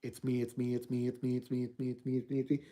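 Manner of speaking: low, soft chant of a menacing spirit, repeating; angry onslaught of noise. Acted. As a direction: press the words in again and again like a haunting. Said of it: "Just under the angry onslaught of noise".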